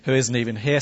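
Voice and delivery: mock-solemn angel greeting with a sarcastic tail. Angel recruits a man hiding in a winepress, sarcastic. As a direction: proclaim it, then rattle off the sarcastic tail. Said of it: "Sorry, not sarcastic".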